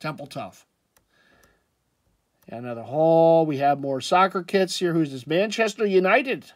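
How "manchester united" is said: badly faked British accent, pitched higher; terrible British accent. Vlogger jokingly announcing a soccer kit, bad British accent. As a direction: put on a clumsy mock British accent. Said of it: "That was a terrible British, uh, accent".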